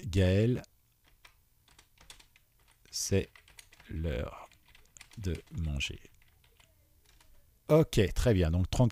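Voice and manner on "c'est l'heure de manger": softer, drawn-out words spoken while typing; murmured dictation. Real, not acted. Teacher murmuring test input while typing it. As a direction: sound each word out slowly as you type it.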